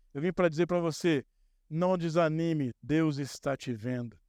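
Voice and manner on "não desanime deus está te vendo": encouraging. Shown as a demonstration. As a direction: lift up a discouraged listener gently. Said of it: "Eu vim pra te dar ânimo".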